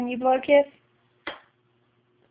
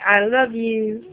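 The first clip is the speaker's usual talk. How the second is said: slow coaxing; slower than usual. Shown as a demonstration.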